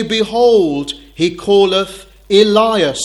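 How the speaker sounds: scornful onlookers calling out; mocking taunt. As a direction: throw "Behold, he calleth Elias" out as a jeer. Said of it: "They continue in their mocking".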